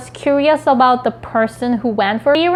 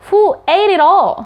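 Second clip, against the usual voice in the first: mock angry mom; 5 semitones higher, 3 dB louder than usual. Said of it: "Your mom is suddenly angry and asks".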